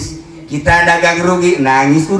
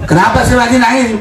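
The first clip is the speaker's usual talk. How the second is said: rushed question; 6 semitones higher, much faster than usual. Acted. Voiced question repeated.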